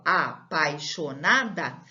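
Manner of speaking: apaixonada said slowly with its A sounding stronger; teacher shows apaixonada slowly to the class, A stressed. Shown as a demonstration. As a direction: lean on the A in apaixonada. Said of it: "O A fica mais forte".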